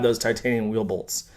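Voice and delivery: dry, muttered mock awe; sarcastic. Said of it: "Sorry for being sarcastic".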